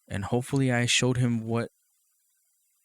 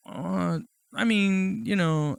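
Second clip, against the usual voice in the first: dad stammering; 7 semitones higher, much slower than usual. Retold or imitated. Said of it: "he's like".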